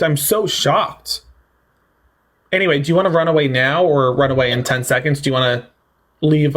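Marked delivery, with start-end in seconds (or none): 0.0-1.2 sarcastic shock. Pretend. Repeated slow sarcasm.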